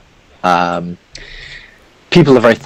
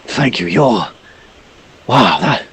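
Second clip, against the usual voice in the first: put-on much higher, fluting old toff; gushing aristocrat, shocked by the beasts; elderly noble in red robe gushing at the heroes, high and theatrical; pompous old gentleman; 4 semitones higher than usual. Noble thanking the party.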